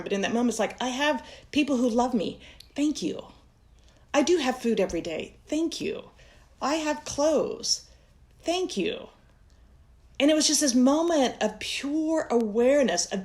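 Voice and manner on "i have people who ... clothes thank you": grateful murmur. Retold or imitated. Remembering counting coins, whispering thanks for blessings. Inner gratitude voiced in memory.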